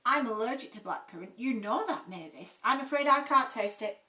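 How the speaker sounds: holding back tears, tight voice; fighting back tears. Acted. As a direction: close to tears but composed. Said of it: "fighting back tears".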